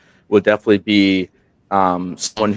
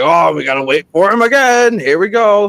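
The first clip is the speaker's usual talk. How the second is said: high, louder mock exasperation; sarcastic, pitched way up; sarcastic groan; 12 semitones higher, 5 dB louder than usual. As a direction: roll your eyes at waiting again. Mock complaint about waiting.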